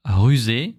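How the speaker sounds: "rusé" with a loud uvular initial R; French R demo. Shown as a demonstration. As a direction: hit the R of "rusé" in the throat.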